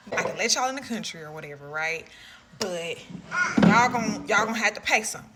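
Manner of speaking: lightly imitated Hispanic accent, quick. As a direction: mimic the officer demanding a fee with a Hispanic accent. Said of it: "like, a Hispanic accent".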